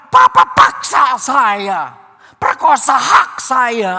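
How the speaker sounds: slow, pleading child's protest, mildly voiced; a preacher lightly playing a protesting child; child crying out. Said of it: "Ini anak teriak".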